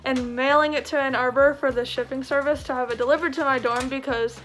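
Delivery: talking while icing swollen jaw; ice pack on jaw. Real, not acted. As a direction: speak around an ice pack after wisdom teeth. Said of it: "Don't mind this. I got my wisdom teeth out recently, so I'm still icing".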